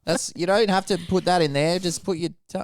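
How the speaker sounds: a hint of a whiny complaint; mock pleading character; rim job voice. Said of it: "rim job was like".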